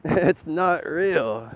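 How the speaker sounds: slow, laughing 'It's not real' with stress on 'not'; laughing slow repeat. Real, not acted. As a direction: stretch each word out while laughing. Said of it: "laughing repeat, drawn out".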